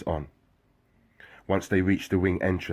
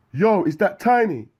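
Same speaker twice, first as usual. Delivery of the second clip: very high, loud call; 13 semitones higher, 6 dB louder than usual. Acted. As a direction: shout it across the wing. Calling from another cell.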